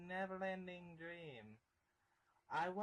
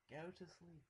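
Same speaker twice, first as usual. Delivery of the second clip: menacing hush; 4 semitones lower, 11 dB quieter than usual. Acted. Killer speaks on the phone.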